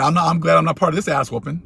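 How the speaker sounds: words through a laugh. Real, not acted. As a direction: chuckle as you say it. Laughing while saying it.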